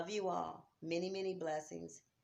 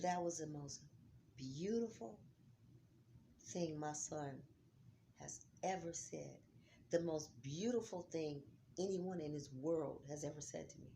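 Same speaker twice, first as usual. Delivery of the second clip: barely getting the words out, overcome; choked whisper; 4 dB quieter than usual. Real, not acted. Mother overcome by her son's words, whispering. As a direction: voice dropping to a real unvoiced whisper.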